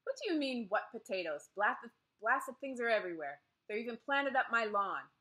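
indignant, irritated outburst; frowning irritation. A narrator's reading. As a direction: complain crossly, voice lifted. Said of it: "Lady Thornton frowned".

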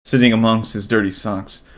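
measured story-reading voice; storybook narration. Acted. Streamer reading the game's backstory, storybook narration. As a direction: read it like a bedtime tale.

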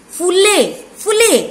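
फूले said high with a short "u", like "phulle"; mispronounced फूले as "phu-le", quick first vowel; wrong short vowel. Shown as a demonstration. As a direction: cut the ऊ short to छोटा उ in फूले. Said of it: "फूले नहीं होता".

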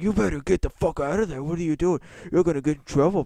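loud, high mock scolding; imitated teacher yelling. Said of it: "the teacher was yelling at me".

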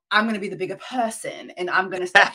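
imitating a London woman's accent; American attempting a London accent. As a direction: have a playful go at a British London accent. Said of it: "That's not bad".

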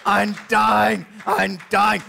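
milk it like a dying martyr; hammed-up dying whine. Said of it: "They're milking it".

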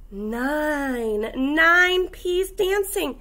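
lively, sing-song picture book read; reading to children. Acted. Teacher reading a counting book to kindergartners, animated. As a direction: read it like storytime for little kids.

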